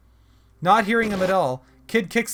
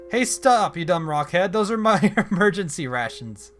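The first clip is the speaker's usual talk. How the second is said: outraged shout; 3 dB louder than usual. Acted. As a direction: yell at the dumb rock to stop. Kid protests raisins eaten.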